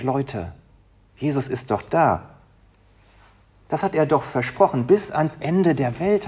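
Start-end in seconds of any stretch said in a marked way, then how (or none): 4.9-6.3 slow, lifted, ending on a rise; slow solemn quote. Retold or imitated. Preacher quoting Jesus' promise to the congregation, slow and lifted. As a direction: lay each word out slowly as a promise. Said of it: "hat er gesagt".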